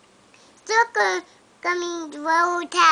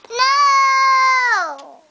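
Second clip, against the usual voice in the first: crying no; 4 semitones higher, 6 dB louder than usual. Real, not acted. Child crying out at dog.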